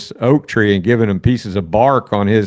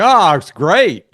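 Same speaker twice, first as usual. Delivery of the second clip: mock cheerful reply; 5 semitones higher, slower than usual. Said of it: "you're supposed to".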